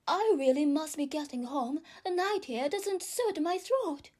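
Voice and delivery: put-on fast, fussy old magpie; a bird hurrying off. Old magpie excuses itself.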